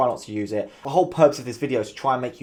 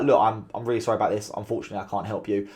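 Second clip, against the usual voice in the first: sincere apology; 3 semitones lower, faster than usual. Shown as a demonstration. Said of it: "Sometimes that is the vibe".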